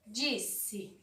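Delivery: soft repeated demo word. Shown as a demonstration. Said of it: "ó".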